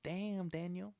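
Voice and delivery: high-pitched meme catchphrase voice; imitating a viral video. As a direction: mimic a friend hyping someone up on video. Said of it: "he just, like, Snapchats".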